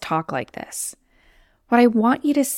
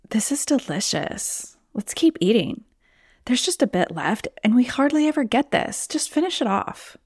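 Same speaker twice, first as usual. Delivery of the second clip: conniving lower brain; 3 semitones higher than usual. Acted. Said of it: "She's much more conniving and convincing".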